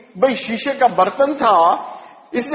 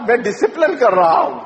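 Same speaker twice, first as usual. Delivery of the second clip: mocking father. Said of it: "ہر تھوڑی دیر بعد".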